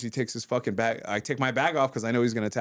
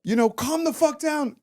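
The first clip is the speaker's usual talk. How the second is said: higher-pitched exasperated protest; retold angry outburst; 11 semitones higher than usual. Telling attacker he pinned to calm down, retold exasperation. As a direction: reenact scolding a man you have pinned.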